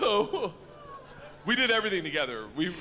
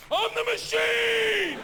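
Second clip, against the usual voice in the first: shouting; 7 dB louder, much slower than usual. Retold or imitated. Repeated battle cry.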